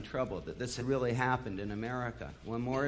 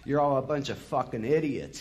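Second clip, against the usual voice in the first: louder, furious bellow; 2 semitones higher, 4 dB louder than usual. Retold or imitated. A singer on stage bellowing at the audience. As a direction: bellow the insult at them. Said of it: "he bellowed".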